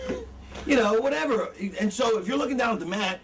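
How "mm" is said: high, thin happy squeal; demonstrated happy little sound; mock happy hum. Shown as a demonstration. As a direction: pretend delight with a wordless noise. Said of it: "if you're happy, you're like".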